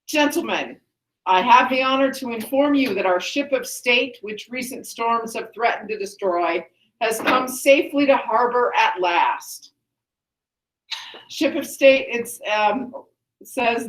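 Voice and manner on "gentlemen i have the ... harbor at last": measured, lightly formal royal address; a hint of a proud king addressing his men; lightly voiced Creon. Teacher reads Creon's opening speech to class, lightly declaimed.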